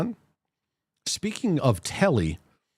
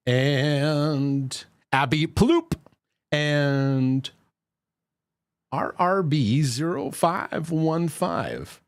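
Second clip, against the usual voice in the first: announcer call; 3 semitones higher, much slower than usual. Acted. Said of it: "stretched name reading".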